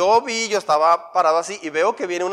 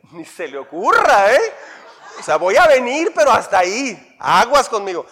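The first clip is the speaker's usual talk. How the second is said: threatening warning; 6 dB louder than usual. Retold or imitated. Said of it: "como que me advierten".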